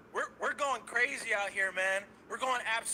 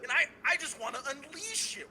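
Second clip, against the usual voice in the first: a touch of raised anger; mild anger; 5 semitones higher than usual. Real, not acted. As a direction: lean into it, half laughing. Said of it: "I feel genuine anger right now".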